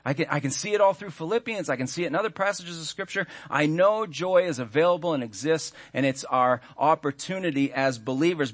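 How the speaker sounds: a hint of a shrugging churchgoer reciting facts; lightly voiced complacent believer; imitated believer. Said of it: "and you go".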